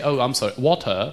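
water said as wol-ter with an L; careful wol-tuh for water; corrected pronunciation. Shown as a demonstration. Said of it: "I'm working on it".

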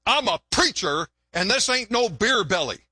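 mildly indignant retort; indignant preacher. Acted. Preacher defends his belly to the woman, mildly indignant. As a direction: play a touch of offended dignity. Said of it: "the preacher got all indignant".

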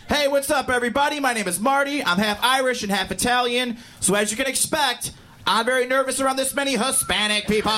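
high, pumped-up MC opener; hyped stage comic. Retold or imitated. Hispanic comic greeting the crowd, high and hyped. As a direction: open big like a hype comic. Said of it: "I'm like".

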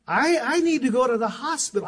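matter-of-fact, stammering a little over I, I; calmly understated. Retold or imitated. Husband calmly telling wife about a cut thumb, understated. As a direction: say it casually as if nothing were wrong. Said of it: "I said it just like that".

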